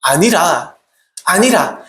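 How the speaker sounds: slow, firm divine refusal. Acted. God's commander answering Joshua's question, firm. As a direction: answer firmly, drawing it out. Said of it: "단호하게 얘기합니다".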